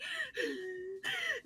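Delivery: high, long mock gasp; overwhelmed gasp. Fan reaching Jeff in line, acted overwhelmed gasp. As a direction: act out a starstruck gasp for air. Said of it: "and I'm like".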